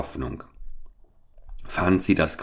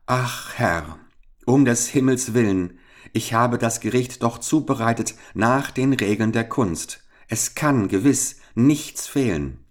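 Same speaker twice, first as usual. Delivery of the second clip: trembling plea; 5 semitones higher than usual. Acted. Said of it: "So sprach der Zwerg und zitterte".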